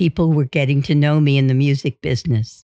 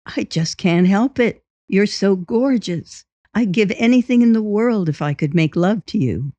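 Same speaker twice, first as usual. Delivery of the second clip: higher-pitched, lovestruck pleading; smitten suitor; 5 semitones higher than usual. Acted. Husband playing a smitten stranger to his wife, lovestruck. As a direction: woo them, pitch lifted in longing.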